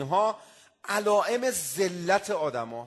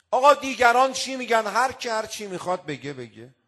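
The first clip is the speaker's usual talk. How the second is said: pleading petitioner; 4 semitones higher, 5 dB louder than usual. Retold or imitated. Voicing the petitioner's protest.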